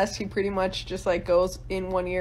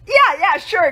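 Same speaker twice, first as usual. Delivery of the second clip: hesitant, higher-pitched yes; awkward agreement; 5 semitones higher, 6 dB louder, slower than usual. Retold or imitated. James agreeing to Congress, hesitant and awkward. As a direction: mumble a reluctant yes. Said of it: "he was just too awkward to say".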